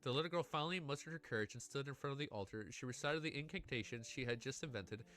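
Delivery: steady storytelling read to the chat; story narration. A narrator's reading. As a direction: read the ending like an audiobook, savouring it. Reads a novel aloud.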